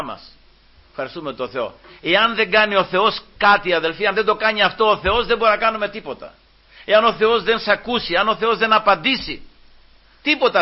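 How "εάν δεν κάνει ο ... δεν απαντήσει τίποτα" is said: insistent, raised preacher's voice; emphatic preaching. Acted. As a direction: press each condition on the congregation.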